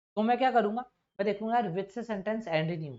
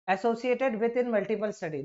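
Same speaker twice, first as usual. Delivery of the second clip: each word drawn out slowly, like reading an exam option; slow reading aloud; much slower than usual. Shown as a demonstration. Teacher reading a sentence to students, slowly. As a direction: read it out word by word for the class.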